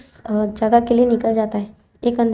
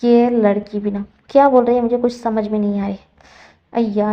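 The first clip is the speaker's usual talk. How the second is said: put-on louder, irritated snap at the girl; a retold flash of anger, mildly raised; angry outburst; 4 dB louder than usual. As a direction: assistant loses patience with the gagged girl, mock angry. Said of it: "शुयांग ना गुस्से में हो जाता है".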